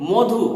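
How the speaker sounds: মধু said as "modhu", the first vowel rounded to o; teacher says মধু with an o sound, "modhu"; spoken "modhu". Shown as a demonstration. Teacher demonstrates Radhi pronunciation, মধু as "modhu". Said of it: "বলি না, কি বলি?".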